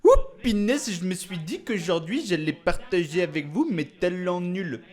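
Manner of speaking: high, hyped-up YouTuber opener; excited intro. Pretend. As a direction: burst in overexcited. Hammy excited vlog intro.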